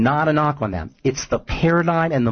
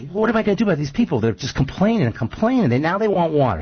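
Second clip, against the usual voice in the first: exasperated; 5 semitones higher than usual. Retold or imitated. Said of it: "Moses is just sick of these".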